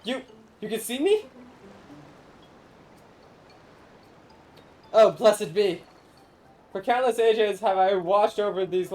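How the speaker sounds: lightly voiced grand old spirit, solemn and theatrical; ancient corn spirit. Corn spirit pleading with the traveler to feed the people, lightly grand. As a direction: speak as a lofty forgotten guardian of the harvest.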